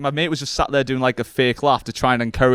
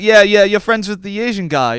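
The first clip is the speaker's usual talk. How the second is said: imitated Italian accent, a little higher; lightly put-on Italian accent, pitched up; 4 semitones higher, 3 dB louder than usual. Italian guy insisting he knows him, Italian accent. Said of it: "He was an Italian guy".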